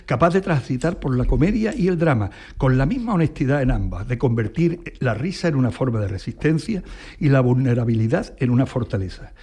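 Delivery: evenly phrased read-aloud of a written eulogy; formal tribute reading. Acted. Host reads the AI's words about the actress, formal tribute reading.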